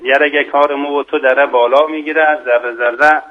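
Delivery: lilting verse in Mashhadi dialect; Mashhadi accent. Shown as a demonstration. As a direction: recite it rhythmically with a Mashhadi accent. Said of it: "با لهجهٔ شیرین مشهدی".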